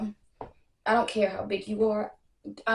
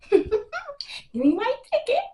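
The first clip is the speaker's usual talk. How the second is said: mock demand; 4 dB louder, much slower than usual. Mocking demand, laughing.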